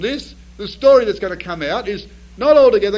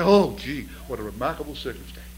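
sheepish wonder; 7 semitones lower, 5 dB quieter than usual. Retold or imitated. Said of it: "we think".

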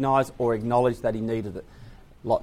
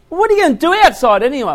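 mum's voice; 12 semitones higher, 7 dB louder, faster than usual. Retold or imitated. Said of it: "She, she was like".

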